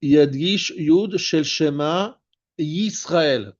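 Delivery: slow, deliberate Yisrael with its opening y held; stressed Yud. Shown as a demonstration. Teacher quoting the rule to students, stressed Yud. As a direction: set Yisrael apart and lean on its first sound. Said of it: "tu insistes sur le Yud".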